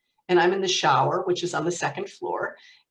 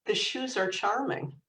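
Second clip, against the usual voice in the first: measured reply; 3 semitones higher, 5 dB quieter than usual. Pretend. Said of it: "I would pause and say".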